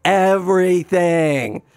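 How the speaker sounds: slow, emphatic retold lament; insistent despair. Man contradicting Miriam's reassurance, mildly despairing. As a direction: insist on it, dragging out the last words.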